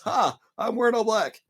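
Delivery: high, gloating reveal voice; mock gleeful witch. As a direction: gloat like a villain unveiling herself.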